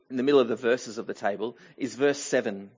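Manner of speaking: quick self-correction. Real, not acted. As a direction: hurry the corrected phrase under the breath. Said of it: "well, actually".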